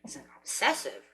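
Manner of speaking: low, soft, puzzled muttering to herself; quiet inner thought. Retold or imitated. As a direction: voice thinking aloud under her breath. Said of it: "sitting there thinking".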